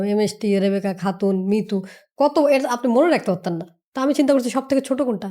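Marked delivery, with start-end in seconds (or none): 0.0-1.8 long full name. Shown as a demonstration. Showing listeners how long her full name is, slow and deliberate. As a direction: spell out MST Rebecca Khatun Mitu slowly, every part separate. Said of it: "এখন আমি যদি পুরা নাম দিতে যাইতাম".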